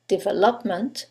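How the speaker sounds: "development" with LOP stressed; develOPment as a wrong-stress test; stress on third syllable. Shown as a demonstration. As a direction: push LOP in "development", DE and VEL light. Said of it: "The third one".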